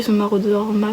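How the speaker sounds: "maraudeur map" in a quick English accent. Real, not acted. Showing the map to her viewers, in an English accent. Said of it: "pardonnez-moi cet accent anglais".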